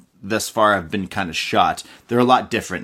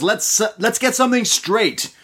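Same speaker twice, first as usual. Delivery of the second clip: Keith Lee voice; 10 semitones higher than usual. Retold or imitated. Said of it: "He says".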